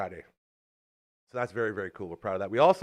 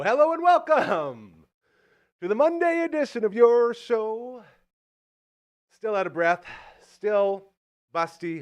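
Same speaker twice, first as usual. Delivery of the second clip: slow, loud, higher announcer welcome; show host welcome; 8 semitones higher, 7 dB louder than usual. Acted. Host welcoming viewers in a big announcer voice. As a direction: draw out the grand opening.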